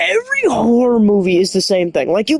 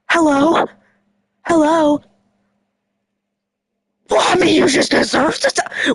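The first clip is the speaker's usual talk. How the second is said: lightly raised, sing-song calling out; high ditzy victim call; 6 semitones higher than usual. Retold or imitated. Dumb victim calling into the kitchen, high sing-song.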